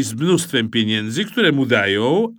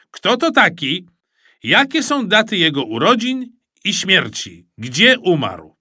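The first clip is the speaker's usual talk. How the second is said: high, emphatic quizmaster delivery; radio quiz host; 6 semitones higher, 3 dB louder than usual. A narrator's reading. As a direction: build up the big question for the audience. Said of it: "powiedział pan z radia". (emfatyczny prowadzący teleturniej)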